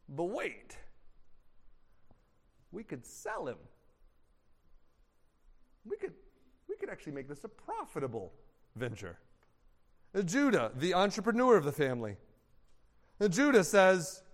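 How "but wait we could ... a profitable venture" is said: much softer and lower, fast; a sly idea slipped in; a low scheming murmur; scheming brother. Acted. Brother proposing to sell Joseph.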